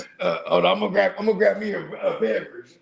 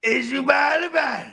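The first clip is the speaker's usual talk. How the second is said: shouted catchphrase; 4 semitones higher than usual. Retold or imitated.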